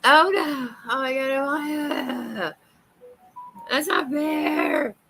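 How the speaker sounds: overwhelmed and playfully protesting; real dismayed surprise. Real, not acted. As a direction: cry of mock outrage. Reacting to a gift.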